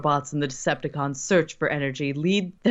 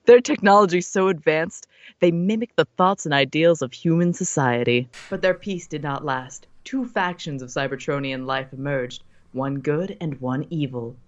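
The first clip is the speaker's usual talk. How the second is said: narrator voice. Acted. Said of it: "your best narrator voice".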